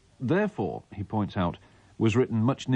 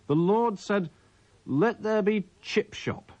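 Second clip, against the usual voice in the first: Richard the Third voice. Acted. Reading a mock Bible page aloud, hammed-up Richard the Third voice. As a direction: declaim the mock scripture like a ranting stage king. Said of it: "I'm doing this in me Richard the Third voice".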